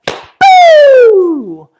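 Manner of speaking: high, loud mock bark; dog barking. Dog spotting cows, high loud boo. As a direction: yelp it like an excited dog. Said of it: "And she was like".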